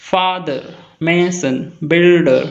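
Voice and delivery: Father, mason, builder said syllable by syllable; split into syllables. Shown as a demonstration. Teacher counting two syllables, split into syllables. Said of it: "have two syllables".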